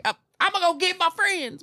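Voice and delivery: a beaten bar loudmouth whining on his way out; mock bar loser. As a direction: whine it as you scurry off. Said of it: "he's like".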